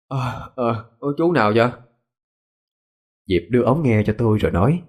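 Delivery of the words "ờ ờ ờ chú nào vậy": muffled behind a hand, just woken; hand over mouth. Acted. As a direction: speak through your hand, groggy. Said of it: "Tôi che miệng nói".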